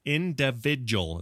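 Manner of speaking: individual demonstrated as "in-duh-VIJ-ul"; grandma's pronunciation. Retold or imitated. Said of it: "is what she'd say".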